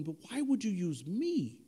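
lightly acted disbelief at being chosen; protesting Peter. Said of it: "I'm sure Peter's going".

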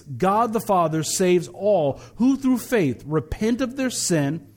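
slow, measured declaration in separated phrases; congregational recitation. Acted. Pastor leads congregation repeating the gospel, slow measured recitation. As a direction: lead the creed phrase by phrase for repeating.

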